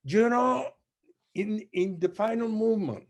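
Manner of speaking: impersonating the conductor. Retold or imitated. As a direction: play the fiery maestro, urging madness. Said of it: "he says".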